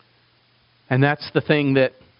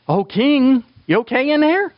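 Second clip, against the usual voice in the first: worried servant calling; 7 semitones higher than usual. Retold or imitated. Servants to the locked-in king, calling anxiously. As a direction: call to the king through the door. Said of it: "we don't have to overdo that".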